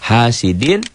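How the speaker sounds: "Hasidin" high, the final n sounded clearly with no hum; idhar, clear. Shown as a demonstration. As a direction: finish "Hasidin" on a clean n. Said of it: "jelas karena tanwin bertemu alif". ("Hasidin" dibaca jelas)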